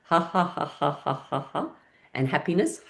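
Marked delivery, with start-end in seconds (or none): 0.0-1.7 deliberate, measured ha-ha, fading; evenly spaced forced ha's; programmed laughter. Shown as a demonstration. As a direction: chant the laugh evenly as an exercise. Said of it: "put some laughing into your brain".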